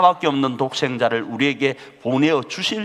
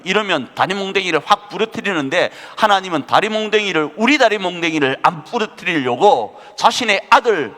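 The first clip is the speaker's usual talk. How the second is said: higher, louder preaching, slowing on key words; fervent preaching; 7 semitones higher, 6 dB louder than usual. Acted. Preacher urging the congregation, in a fervent preaching voice. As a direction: drive God's purpose home from the pulpit.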